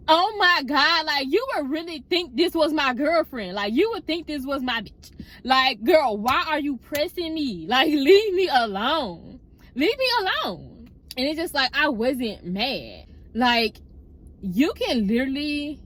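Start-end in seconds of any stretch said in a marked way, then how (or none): 0.1-10.9 higher-pitched, exasperated complaint; retold exasperation. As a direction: act out being fed up with pestering. Retold exasperation at being pestered.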